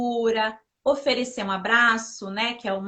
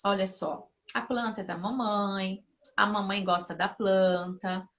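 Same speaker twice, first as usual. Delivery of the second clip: put-on soft, calm voice crouched at a child's level; gentle explaining; 3 semitones lower, 4 dB quieter than usual. Mother kneels to explain to her daughter why the plant matters, softly.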